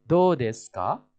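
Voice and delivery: slow, careful teacher model; slow demo of the reply; slow model reading. Shown as a demonstration. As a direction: say it slowly for the class to copy.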